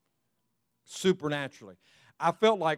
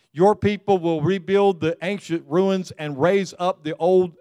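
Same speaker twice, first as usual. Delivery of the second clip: louder proclaiming read; scripture reading; 4 dB louder than usual. Acted. Pastor reads the promise aloud to his church, proclaiming.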